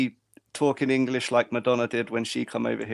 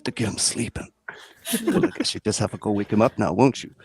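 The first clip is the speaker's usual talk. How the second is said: put-on American movie-character voice; low-key imitation American; American accent; 3 semitones lower than usual. Shown as a demonstration. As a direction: play the line in a mock American accent. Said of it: "that's American, isn't it?".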